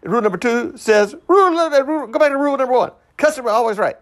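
very high-pitched mock Asian accent. Comic reciting the store's rules to himself, mock Asian accent. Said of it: "I'm talking now like if I were Asian".

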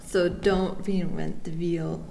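slow, with a German accent. Real, not acted. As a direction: wheel said as veel, German style. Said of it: "my German accent is coming out".

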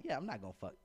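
understated aside to oneself; private inner thought. Retold or imitated. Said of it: "But in my mind, I'm like".

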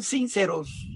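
"sinceros" with deliberate stress on the I; acento en la I. Shown as a demonstration. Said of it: "con acento en la I". ("sinceros" con el acento marcado en la i)

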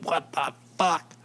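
a hint of the girlfriend's nurse gasping it; shocked nurse. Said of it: "She's like".

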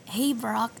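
lightly voiced raspy anime boy; Ash Ketchum. Nervous cohost tries a cartoon impression for the podcast, lightly raspy. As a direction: attempt a cartoon trainer voice, lightly. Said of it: "this is my attempt for Ash Ketchum".

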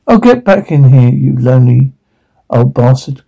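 fond teasing call; affectionate. Acted. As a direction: welcome him home lovingly. Affectionate insult to dog.

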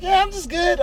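high-pitched retold insistence; mock reassurance. Retelling reassurance to medics.

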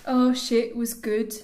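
wobbly Birmingham attempt; attempted Birmingham accent. Chatting as the texted neighbour, muddled Birmingham accent. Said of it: "What is your accent?".

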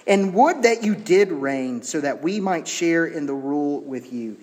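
mock-wistful sting, falling at the end; sarcastic. Paul stinging the would-be rulers, sarcastic. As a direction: deliver the wish with a touch of sarcasm. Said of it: "how you know it's sarcasm".

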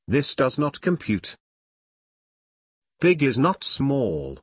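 confused computer voice; glitching robot. Acted. Computer voice hits paradox.

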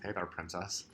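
lazy low flirting voice. Pretend. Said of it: "Princess Leia goes up".

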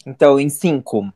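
loud, punchy countdown call. Acted. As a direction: count down loud like a show intro. Countdown to show opening. (contagem regressiva gritada)

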